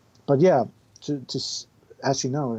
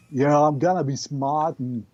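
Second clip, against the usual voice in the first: Schwarzenegger impression. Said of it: "Arnold Schwarzenegger".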